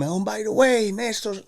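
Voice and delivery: mock-announce it over the loudspeaker; announcer telling the crowd it is his birthday; stadium announcer. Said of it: "the guy who was announcing the game".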